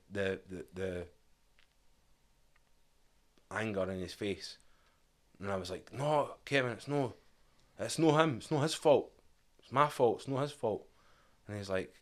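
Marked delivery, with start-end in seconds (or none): 5.9-10.9 high, urgent pleading to calm him down; begging him not to blame anyone. Retold or imitated. Speaker pleads with his angry brother, high and desperate.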